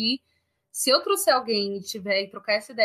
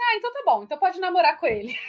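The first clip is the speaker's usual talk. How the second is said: lightly imitated little girl, higher pitch; daughter's voice; 8 semitones higher, 4 dB louder, faster than usual. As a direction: play the satisfied child giving her permission, a touch higher. Mother voices daughter's reply.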